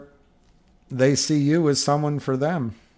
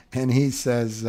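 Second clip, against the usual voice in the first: ordinary talk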